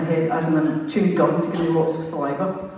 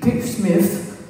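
higher, louder take on Pete Smith; imitating Pete's voice; 4 semitones higher, 4 dB louder than usual. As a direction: slip into Pete's high voice. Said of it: "I talk like that".

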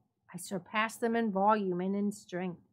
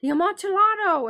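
high, loud, fast startled exclamation; astonished cry; 11 semitones higher, 11 dB louder, faster than usual. A narrator's reading. Chained Fortunato cries out to Montresor, astonished. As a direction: blurt it out, stunned. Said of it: "ejaculated my friend".

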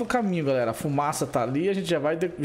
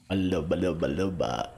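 much lower, growly wolf voice; deep wolf voice; 12 semitones lower, slower than usual. Pretend. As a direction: drop into a big wolf voice. Turning into wolf character.

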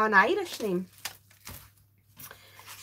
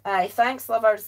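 loud, hammed-up Yorkshire "Aye, thanks, lovers"; a mock Yorkshire greeting, loud and bold; a jokey Yorkshire accent, louder; 6 dB louder than usual. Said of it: "That's Yorkshire".

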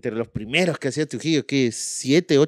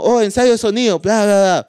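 mock surprise; 7 semitones higher, 5 dB louder than usual. Brian faking surprise.

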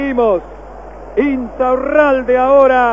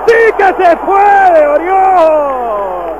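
excited shout; 3 semitones higher, 3 dB louder, much slower than usual. Real, not acted. Celebrating a saved penalty.

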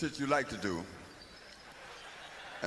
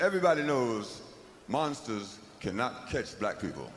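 producer voice; 6 semitones lower than usual. Retold or imitated. Producer explains the rule.

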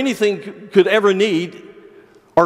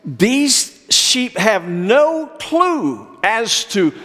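musing shepherd; 5 semitones higher, slower than usual. Retold or imitated. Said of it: "and he thought".

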